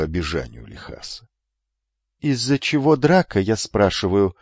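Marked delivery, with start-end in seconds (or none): 2.2-4.4 imperious, repeated demand; commanding. Acted. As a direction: insist like a lordling. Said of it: "властно повторил юноша".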